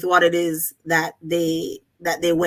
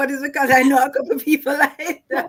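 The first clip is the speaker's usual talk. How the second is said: words spoken laughing, pitched up; 8 semitones higher than usual. Reacting to a description of always-miserable people: laughing while talking. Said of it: "I'm sorry, I'm laughing".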